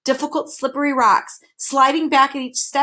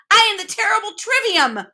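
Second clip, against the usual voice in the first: much higher, louder demon proclaiming himself; villainous demon boast; 7 semitones higher, 3 dB louder than usual. A narrator's reading. Demon Trivium boasting to Milo and Tok, villainous. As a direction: announce your terrible title with relish. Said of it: "with a villainous laugh".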